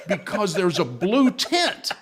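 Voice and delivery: slow words through laughter; real laughter on the words; laughing while talking. Real, not acted. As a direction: get it out while still laughing.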